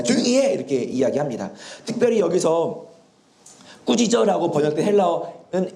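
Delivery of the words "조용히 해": higher-pitched acted rebuke; brief mock telling-off; scolding. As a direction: shush someone sharply, as an annoyed bystander. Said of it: "이렇게 꾸짖고 있습니다".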